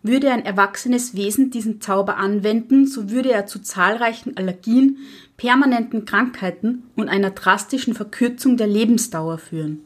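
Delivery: a lightly voiced stern old witch lecturing; strict witch teacher. (Lehrerinnenhexe, leicht gespielt, streng belehrend)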